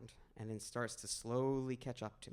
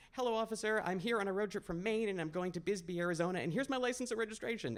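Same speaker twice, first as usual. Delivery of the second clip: higher, nervous words tumbling out to a cop; eager-to-please jitters, pitched up; nervous shaky babble; 8 semitones higher, faster than usual. Retold or imitated. Pulled-over driver to the officer, higher and shaking with nerves. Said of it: "And I'm shaking as I do this".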